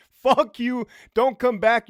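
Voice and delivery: heated, real outburst at deserters; angry dismissal. Real, not acted. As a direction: raise your voice and send the quitters packing. Tells off people who unfollowed him.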